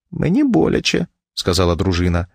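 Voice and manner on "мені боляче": high, plaintive complaint; pained wife. A narrator's reading. Wife gripped by the collar by husband, plaintively. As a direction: complain of pain in a raised voice.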